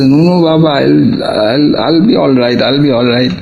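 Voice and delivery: retold hurried objection, voice lifted; imitated protest. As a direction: act out insisting you'll be fine. Acted pleading reply to a scolding.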